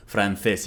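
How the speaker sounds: francés with a lisped th, "franthés"; European Spanish. Shown as a demonstration. Teacher showing European Spanish, francés with th sound. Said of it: "if you want to sound more European".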